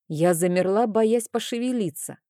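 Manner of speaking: ordinary delivery, nothing marked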